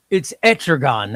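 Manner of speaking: Etrigan as "ET-ruh-gon", ending on a full "gon"; pronunciation demo. Shown as a demonstration. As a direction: declare Etrigan with a rounded last syllable. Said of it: "That's the way you say".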